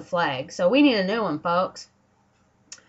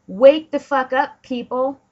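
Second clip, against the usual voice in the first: shouted higher and louder at everyone; angry shout; 5 semitones higher, 7 dB louder than usual. Real, not acted. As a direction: yell it to wake the whole country. Calling out to the public.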